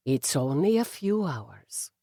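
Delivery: soft, low murmur to his wife. A narrator's reading. Husband soothing Eve at the gala, soft murmur. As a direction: murmur it gently with an Irish lilt. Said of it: "he murmured".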